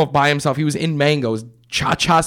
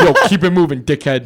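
cop snapping; 3 semitones higher, 6 dB louder than usual. Retold or imitated. Cop telling him to move.

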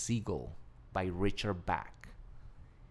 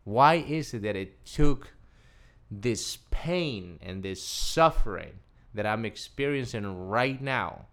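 louder, slower frustrated questions; a retold mad rant; angry outburst; 5 dB louder, slower than usual. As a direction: vent the unfairness of it. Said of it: "I'm so mad".

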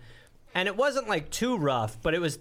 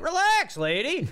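put-on higher, louder bratty teen; cocky teen voice, higher and louder; mock teen; 12 semitones higher, 3 dB louder than usual. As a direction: brush off your mom. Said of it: "I'd be like".

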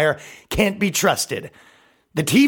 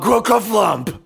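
silly shout; 4 semitones higher, slower than usual. Acted. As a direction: belt out the nonsense word. Hammy sound-word shout.

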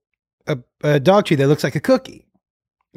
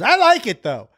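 lightly voiced little boy, higher pitch; Jacob; 6 semitones higher than usual. Young son enjoying the dog treat, light child voice. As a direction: lift it like a small kid piping up. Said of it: "And Jacob goes".

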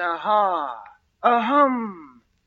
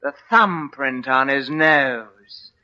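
lightly voiced British sleuth, rising in excitement; a touch of a smug Scotland Yard type pleased with his deduction; pompous British inspector. Hammy British detective voice.

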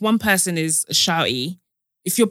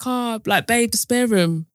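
slower cutesy nudge to a partner; 3 semitones higher, slower than usual. Retold or imitated. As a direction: coax him cutely, drawing it out. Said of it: "trying to be cute about it".

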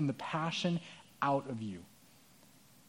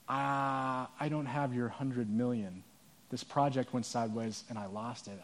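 softer, hesitant confession of a debtor; quiet ashamed debtor; 3 semitones lower, 7 dB quieter than usual. Retold or imitated. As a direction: mumble it out like a man caught owing.

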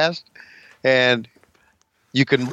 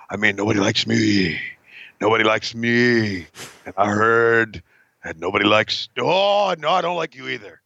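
Arn Anderson promo; 3 semitones lower than usual. Retold or imitated. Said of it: "Arn Anderson".

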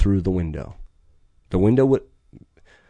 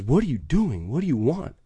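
imitating the driver; 6 semitones higher than usual. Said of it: "And he says".

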